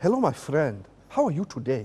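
put-on friendly Nigerian accent. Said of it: "I'm gonna try my Nigerian accent here".

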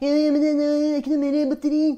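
high, loud, whiny mock teenage boy voice.

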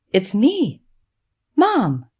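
anxious, uneasy, nervous, high swooping voice. Narrator voicing a mother speaking to her son in a hospital, in a nervous voice. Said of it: "she says in a nervous voice".

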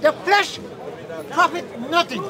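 ordinary delivery

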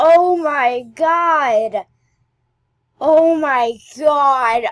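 very loud, very slow startled cry, "god" stretched. Player exploring a game level, caught off guard by something moving, startled. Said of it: "That made me jump!".

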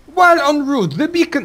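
put-on French accent. Trying to voice a character in a Jamaican accent, the speaker lands in a French accent. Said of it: "No, that's French".

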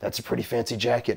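put-on movie tough-guy voice. Quoting what Clint Eastwood said about a jacket: Clint Eastwood voice. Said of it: "Like the time Clint Eastwood said to me".

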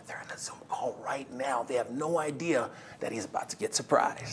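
low, hushed whisper under the breath. People on a Zoom call do not know a nominated man will be surprised; speak whispering.

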